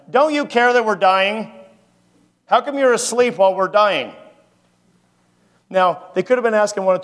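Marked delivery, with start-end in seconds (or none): 0.1-4.1 mild acted yell. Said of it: "I think they're yelling at him".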